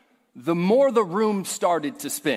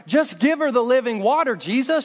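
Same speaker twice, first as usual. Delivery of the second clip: exasperated plea; 5 semitones higher than usual. Acted. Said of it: "exasperated plea to Jesus".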